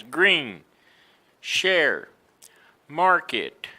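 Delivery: green, share, market, each with a full strong R; emphasized R. Shown as a demonstration. Teacher asking learners to notice, emphatic R in green, share, market. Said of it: "Look at how I emphasize".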